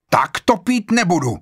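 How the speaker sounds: vysoko a hlasitěji, odmítavě; vykřikni rázné odmítnutí; výkřik. A narrator's reading. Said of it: "křikla Vera". (Vera křikne na Blora, že nebude pít)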